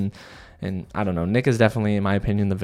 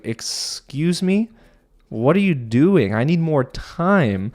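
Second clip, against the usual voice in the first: mock indignation; 5 semitones higher, slower than usual. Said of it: "And Megan's like".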